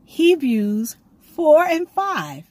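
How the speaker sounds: slow, high, drawn-out solemn words; voice of the Lord. Retold or imitated. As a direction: intone it slowly like a divine voice heard in sleep. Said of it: "I heard him say".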